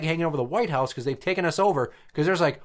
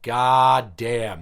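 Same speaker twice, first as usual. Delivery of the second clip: stunned reaction; 4 semitones lower, 4 dB louder than usual. Retold or imitated.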